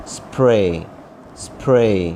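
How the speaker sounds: سپرے as one syllable, s and p run together; correct pronunciation. Shown as a demonstration. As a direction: model a long سپرے, no vowel in the opening cluster. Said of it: "دو حرف ہیں شروع میں جن پر زبر زیر پیش نہیں".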